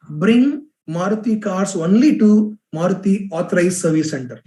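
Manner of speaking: lightly voiced announcer tagline; powerful male voiceover. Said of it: "very powerful male voiceover".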